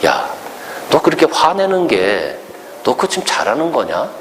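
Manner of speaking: God questioning Jonah. Acted. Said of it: "하나님이 요나에게 그렇게 물어봐요".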